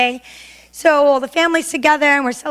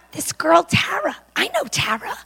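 ordinary talk

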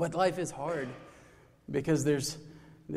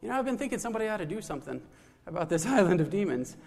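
chattery monkey; faster than usual. Acted. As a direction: rattle it off fast like an eager monkey. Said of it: "And the monkey says".

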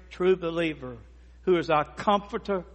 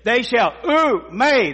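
preacher hammering "never" for emphasis; emphatic repeated never; 6 semitones higher, 5 dB louder than usual. Shown as a demonstration. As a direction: hammer "never" over and over, building then falling away. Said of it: "it makes it emphatic".

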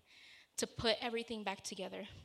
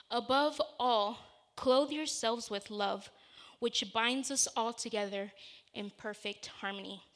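scripture reading; 3 dB louder than usual. Real, not acted. Reads scripture aloud.

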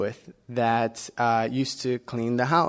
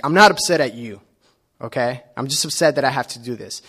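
much louder, defensive burst; defensive protest; 7 dB louder, faster than usual. Retold or imitated. Husband answering his wife Donna, loud and defensive. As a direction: insist loudly you're not upset at her. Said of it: "And I'm like".

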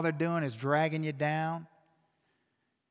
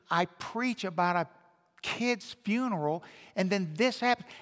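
higher-pitched, mildly distressed retelling; agitated inner monologue; 4 semitones higher than usual. Retold or imitated. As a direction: fret aloud, as if replaying your own dismay. Retelling his panicked thoughts while driving.

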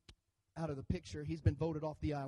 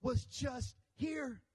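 excited disciples; 5 semitones higher than usual. Retold or imitated. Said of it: "they begin to say".

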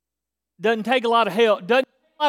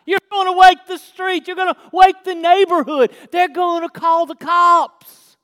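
exasperated, higher-pitched scolding; aggravated; 3 semitones higher, 4 dB louder than usual. Acted. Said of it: "He's done got him aggravated".

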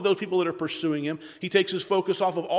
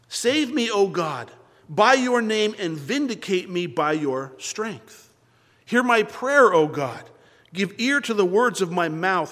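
scripture reading. Acted. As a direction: proclaim the psalm to the congregation. Reads Psalm aloud before preaching.

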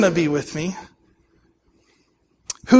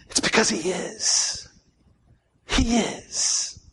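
very soft, slow confiding tone; hushed secret; 10 dB quieter, slower than usual. Shown as a demonstration. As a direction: share it like a secret, far quieter. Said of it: "Can I tell you a secret?".

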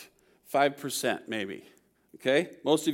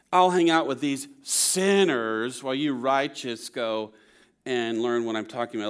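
dry sarcasm leaning on "sinners" and "righteous"; mildly mocking dismissal, settling lower at the end; sarcastic; 4 semitones lower than usual. Jesus dismissing the righteous to go and learn, drily sarcastic. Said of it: "He's sarcastically saying to these Pharisees".

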